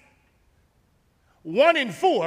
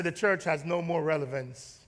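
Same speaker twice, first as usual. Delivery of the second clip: quiet quote; 7 semitones lower, 9 dB quieter than usual. Retold or imitated. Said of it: "and say".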